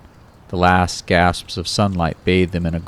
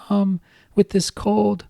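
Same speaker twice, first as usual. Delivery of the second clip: put-on much higher girlish voice sinking to a slow whisper; babyish girl voice, whispered; slower than usual. The speaker as Kate blaming the cold, high and whispered. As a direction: fake the girl voice and let it fade to a whisper of a sore throat. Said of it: "his Cuddly Kate voice holding".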